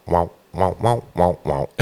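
imitating an auto-filter wah effect; filter wow sound. Shown as a demonstration. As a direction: mouth the wah wah of a filter pedal. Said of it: "that vocal quality of that wow".

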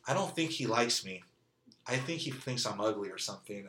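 retold self-doubt. Retells her doubting he likes her.

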